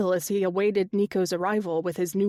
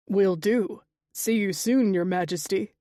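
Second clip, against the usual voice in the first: warm. Acted. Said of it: "Nico said warmly".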